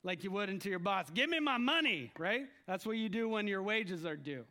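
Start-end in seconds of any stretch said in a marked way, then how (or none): 1.1-2.1 mock-entitled demand, pitched up; proud demand. Worker walking in to the boss for wages, proudly demanding. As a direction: make a hammed-up, proud demand. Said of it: "proud like".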